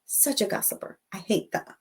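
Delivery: muttered complaint. Retold or imitated. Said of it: "I said".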